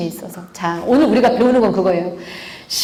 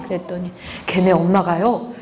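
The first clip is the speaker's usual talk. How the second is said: ordinary talk, nothing marked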